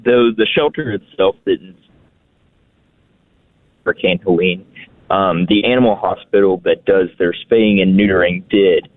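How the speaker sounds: choppy call, words dropping; bad phone connection; breaking up. Real, not acted. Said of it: "Sir, you're cutting out very bad".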